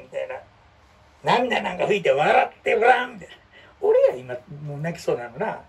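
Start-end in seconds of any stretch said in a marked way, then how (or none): 1.2-3.1 hammed-up, slow and a little louder; mock tender hero; cool hero line. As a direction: coax like a drama hero comforting someone. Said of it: "かっこええやんか".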